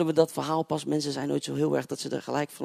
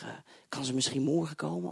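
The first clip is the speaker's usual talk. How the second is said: whispered question; 6 dB quieter than usual. Retold or imitated. Preacher asking the mother about her daughter, whispered. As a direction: ask it under your breath.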